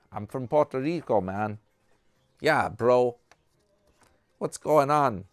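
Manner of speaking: put-on laid-back Puerto Rican street accent; cool surfer bro with a Puerto Rican accent; pretending to be a Puerto Rican motorcycle guy, accent on. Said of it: "I gotta do my accent".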